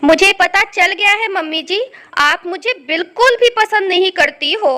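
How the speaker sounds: loud, hurt accusation; insist, upset, that she dislikes you; acted tearful reproach. रोना बंद करो.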